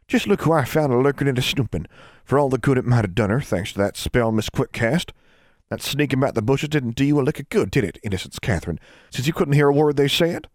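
put-on high old granny calling out a child's full name; stern old granny. A narrator's reading. Great-grandmother catching the snooping girl, high stern granny voice.

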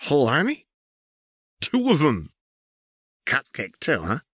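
high amused questions; high and playful; teasing Jinx. Acted. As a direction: toy with her sister. Jinx taunting.

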